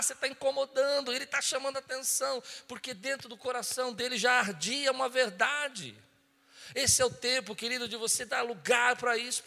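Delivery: loud, high, impassioned preaching; preaching at full force. Real, not acted. Pastor urges the congregation to follow their impressions, preaching forcefully. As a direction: drive it home to the congregation at full voice.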